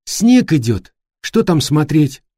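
high, slow, whining on the verge of tears; whiny tearful voice. Acted. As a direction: whimper it out like a sulking girl. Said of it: "плаксивым голосом сказала Эллен".

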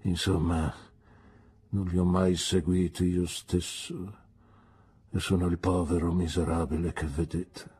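mild frowning self-pity; frowning Micawber. Acted. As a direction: darken suddenly and sigh it out. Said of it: "si interruppe accigliandosi".

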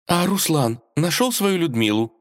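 put-on high, eager girl's voice; pestering princess. A narrator's reading. Princess pestering the cat for the story, high and eager. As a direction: nag him like an impatient girl. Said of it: "теребила его Василиса".

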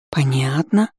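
«Понятно» stretched out, rising at the end; drawn-out. A narrator's reading. Friend hears that papa must not know, drawn-out «Понятно». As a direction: draw out «Понятно» with a lifted tail. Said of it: "опять протянула она".

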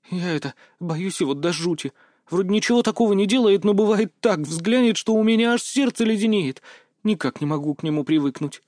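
lightly voiced girl, uneasy. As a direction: speak as a young girl spooked by the old man. Mia's voice held. (слегка девичьим голосом, с опаской)

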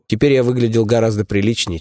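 ordinary delivery, nothing marked

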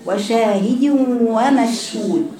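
وشاهد ومشهود drawn out slowly; slow recitation demo. Shown as a demonstration. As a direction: model the verse slowly for the class. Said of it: "مين تاني يقولها". (تلاوة بطيئة للتعليم)

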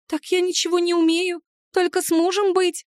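high, plaintive little-creature voice; unhappy house spirit. Acted. Heroine asks, house spirit answers in a high plaintive voice. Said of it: "с несчастным видом сообщила Махрыня".

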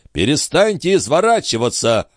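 mild angry cry. A narrator's reading. Marat losing patience with the lying concierge, exclaiming. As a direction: snap at her to stop. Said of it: "вскричал Марат, раздражаясь".

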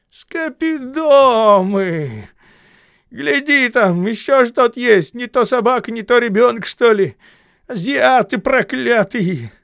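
loud, high furious cursing; angry cursing. A narrator's reading. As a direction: curse them up from the well. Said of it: "поднимаются его ругательства".

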